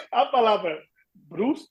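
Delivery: Brust, Brot, Prost, Post said slowly in German; German words listed. Shown as a demonstration. Explaining confusing German words: slow, careful listing. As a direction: spell out Brust, Brot, Prost, Post slowly to show they sound alike. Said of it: "foneticamente falando, tudo igual".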